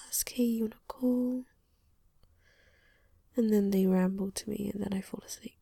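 hushed whispered chat; whispering. Real, not acted.

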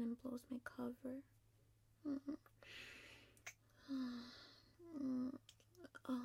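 quiet, sly goodbye whisper; conspiratorial whisper. Acted. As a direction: whisper the secret plan, sly. Parting secret aside.

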